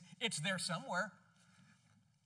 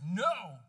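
"no" said loud and strong; stress on no; 12 dB louder than usual. Shown as a demonstration. Preacher pointing to the first word, stressing "no". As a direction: punch "no" hard. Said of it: "So the very first word is".

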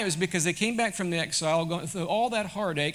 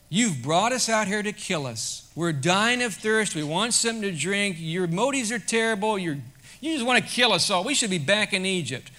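louder, higher whining complaint from the people; complaining crowd; 4 semitones higher, 5 dB louder than usual. Retold or imitated. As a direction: voice the grumbling people accusing Moses. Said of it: "were mumbling and complaining".

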